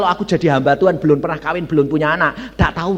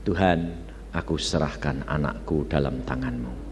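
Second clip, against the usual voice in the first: low, soft prayer to God; subdued imitation of a praying mother; retold surrendering prayer; 11 semitones lower, 9 dB quieter than usual. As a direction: hand it over to God quietly. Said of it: "dia berkata".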